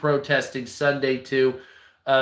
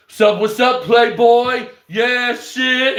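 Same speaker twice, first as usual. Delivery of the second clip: mocking a country boy acting hood, higher and louder; imitating a hood voice; 6 semitones higher, 5 dB louder, slower than usual. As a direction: lay on the fake street greeting. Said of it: "this guy wearing farming equipment".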